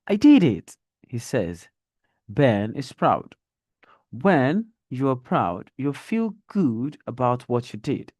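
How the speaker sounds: lively storybook read with brighter quotes; teacher reading a grade one story aloud; reading to children. Acted. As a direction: read it like a picture book for young learners.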